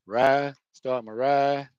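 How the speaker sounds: drawn-out "ride", final s dropped; "rice" as "ride". Shown as a demonstration. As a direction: stretch "ride" without the s of rice. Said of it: "Ride is rice".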